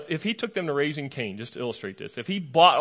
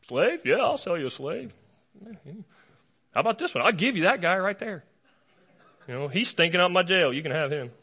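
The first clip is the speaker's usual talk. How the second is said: slave peddler; 3 semitones higher than usual. Retold or imitated. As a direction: play a pushy trader at the jail hawking a prisoner. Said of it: "with him going".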